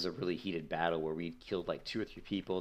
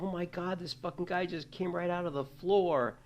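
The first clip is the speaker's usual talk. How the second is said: high-pitched, stretched disbelief; mock panic, pitched well up; retold frantic yell; 11 semitones higher than usual. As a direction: replay your alarm without full volume. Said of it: "I yelled at my brother".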